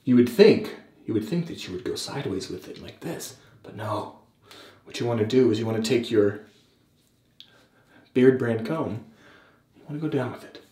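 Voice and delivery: mock-serious how-to narration with deliberate pauses; Jack Malacco impression. Vlogger imitates a beard YouTuber explaining combing, lightly mock-serious impression. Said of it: "I'm trying to be more serious, actually, for this impression".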